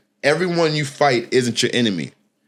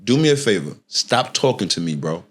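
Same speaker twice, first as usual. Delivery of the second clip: aggravated warning; 5 semitones lower than usual. Retold or imitated. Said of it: "even more aggravated".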